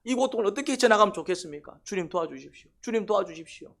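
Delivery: acted appeal for God's help, pitch lifting; pleading prayer. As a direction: beg the Lord as if at the end of endurance. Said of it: "기도하는 거예요".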